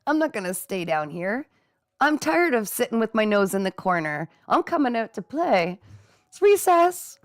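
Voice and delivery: put-on a kid bursting out to play; inner child. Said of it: "That's the inner child".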